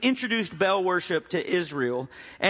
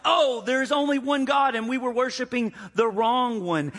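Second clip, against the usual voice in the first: excited shout; 7 semitones higher than usual. Retold or imitated. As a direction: cry out the discovery like a whole crowd. Crowd realizes the true God.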